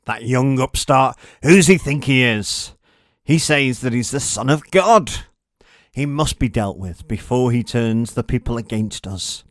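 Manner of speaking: indignant plotter. Acted. A religious leader scorning Jesus to the others, loud and indignant. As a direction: spit out your contempt for the upstart.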